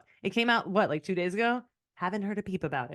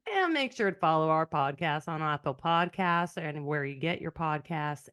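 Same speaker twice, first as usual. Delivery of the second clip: easy Southern sign-off; Southern accent. Shown as a demonstration. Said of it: "in your Southern accent, accent, why don't you sign us off?".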